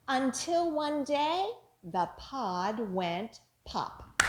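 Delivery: action rhyme. Shown as a demonstration. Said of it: "as we say our finger play".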